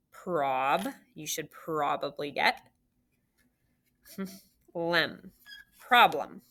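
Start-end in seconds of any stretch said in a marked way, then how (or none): 0.1-0.9 Prob drawn out as a lone syllable. Shown as a demonstration. Teacher dictates word by syllables. 4.7-5.3 Lem as a separate, isolated syllable. Shown as a demonstration. Teacher dictates word by syllables.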